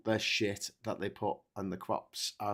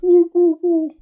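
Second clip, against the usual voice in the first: very high loud cooing hoots; pigeon sounds; 13 dB louder than usual. Pretend. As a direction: hoot like frantic birds. Pigeons imitated.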